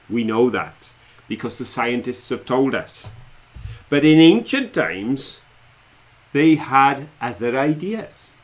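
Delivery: slow, dramatic quiz question read; quiz host. Acted. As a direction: build suspense like a quizmaster. Quiz master reads question.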